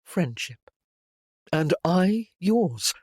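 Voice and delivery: slow, steady, hiding the hurt; unwavering tone. A narrator's reading. Henry answering Jane's talk of friendship, slow and steady. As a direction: keep it level and measured though his heart sinks. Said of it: "His tone was unwavering".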